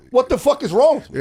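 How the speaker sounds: mock outraged patient. Patient demanding answers.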